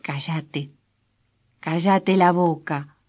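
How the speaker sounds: a mild, understated plea to hush; pleading. Acted. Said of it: "rogó ella". (ruego suave y contenido)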